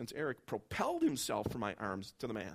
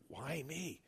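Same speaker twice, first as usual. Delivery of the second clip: whispered; 7 dB quieter than usual. Retold or imitated. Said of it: "I whispered".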